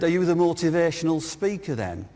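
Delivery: lightly imitated Birmingham accent; retold question in a Birmingham accent. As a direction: put on a mild Brummie accent. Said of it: "In a Birmingham accent".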